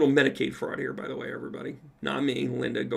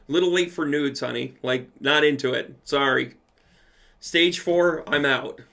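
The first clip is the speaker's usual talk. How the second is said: sassy refusal; 2 semitones higher, 6 dB louder than usual. Retold or imitated. Joking refusal to Linda.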